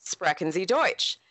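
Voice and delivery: Sprechen Sie Deutsch in a lightly imitated American Midwestern accent, a bit slow; American Midwestern German. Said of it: "with his American Midwestern flat tone".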